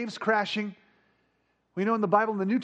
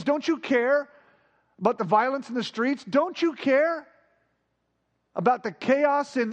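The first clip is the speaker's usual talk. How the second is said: desperate crying out; 5 semitones higher than usual. Retold or imitated. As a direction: cry out to Jesus, begging over and over. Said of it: "When you cry out to Jesus".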